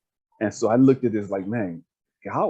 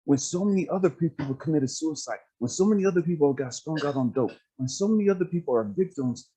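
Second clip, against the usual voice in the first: lightly voiced affirming speaker, pitched up; imitating an earnest, higher-pitched encourager; God; 5 semitones higher than usual. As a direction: build them up point by point, higher and emphatic. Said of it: "God was like".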